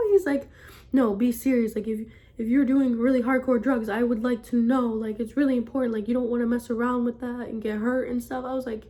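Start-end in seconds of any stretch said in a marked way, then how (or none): 0.9-8.4 louder, insistent retold warning; serious dad. Dad warns daughter about drugs, firm and insistent. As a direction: imitate an earnest fatherly talking-to. Retold dad's stern phone lecture.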